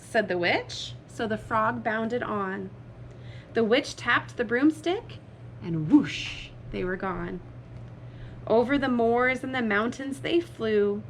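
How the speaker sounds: animated picture-book reading; spring the surprise on young listeners; lively story narration. A narrator's reading. Reader revealing the frog to children, lively narration.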